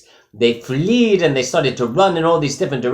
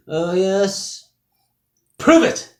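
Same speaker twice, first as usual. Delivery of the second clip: high squawky pelican demanding proof; 9 semitones higher, much slower than usual. Acted. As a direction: jump way up into a bird's challenge. Pelican challenges the stranger.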